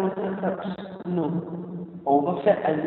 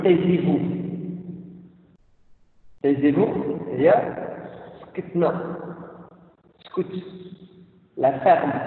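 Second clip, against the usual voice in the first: mock scolding; 3 semitones lower than usual. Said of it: "vous avez entendu depuis votre enfance".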